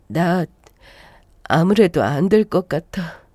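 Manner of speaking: slow, faint pretend farewell; feigning dying. Wife pretending to die before her husband, slow and faint. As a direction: act out a lightly played deathbed goodbye. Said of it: "곧 죽을 사람처럼 누워 있었습니다".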